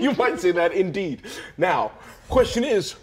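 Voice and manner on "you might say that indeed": laughing smug. Acted. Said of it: "You guys are both flexing".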